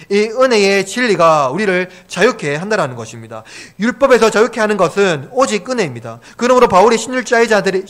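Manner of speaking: preacher driving the point home; emphatic preaching. Real, not acted. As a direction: proclaim it to the congregation with force. Preaches at full force.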